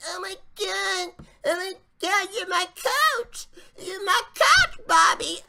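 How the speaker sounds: high, whiny mock concern; mocking Darren Young. Host mocking Darren Young fussing over Bob Backlund, high and whiny. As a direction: squeak it like a worried sidekick. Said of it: "He's like".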